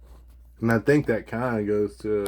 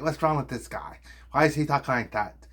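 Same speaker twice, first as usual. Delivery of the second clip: mock puzzled viewer, slightly raised; 3 semitones higher than usual. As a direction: imitate a baffled viewer asking. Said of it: "people are like".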